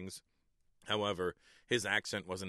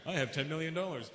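higher, smug voice of a rich American bragging; American rich guy; 8 semitones higher than usual. Retold or imitated. Comedian mocking American rich, smug and higher. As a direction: play it like a showy American millionaire. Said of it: "Like, uh, American rich".

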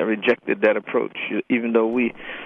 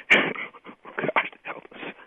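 laughing; 6 dB quieter, much slower than usual. Real, not acted. Laughing at the question.

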